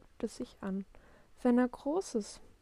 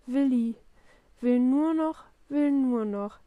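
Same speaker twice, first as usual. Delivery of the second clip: loud, higher mocking echo; mimicking; 4 semitones higher, 7 dB louder than usual. A narrator's reading. Papa groans and apes Willi, mimicking. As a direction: parrot the child's phrase back at him. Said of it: "Papa äfft ihn nach".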